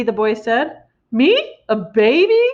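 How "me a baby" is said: higher, loud outraged shout; outraged disbelief. A narrator's reading. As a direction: headmistress shouts at the boy. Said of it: "shouted the Trunchbull".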